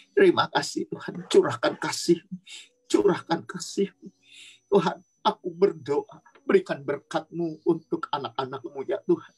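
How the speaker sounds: fervent spoken prayer, tongues then petitions; praying in tongues. Acted. Sister prays over the children online, fervent prayer. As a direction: pour it out to God over the kids.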